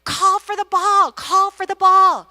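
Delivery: slow mock yell at the kid; furious mom yelling. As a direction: bark it like an angry sideline mom. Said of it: "She's furious".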